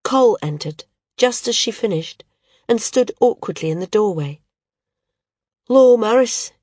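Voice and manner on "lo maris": uncertain. Acted. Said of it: "he said uncertainly".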